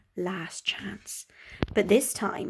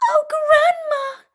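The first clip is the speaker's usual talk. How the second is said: put-on high, slow little girl; much higher, wide-eyed girl; 8 dB louder, slower than usual. Red Riding Hood to the wolf, high and slow.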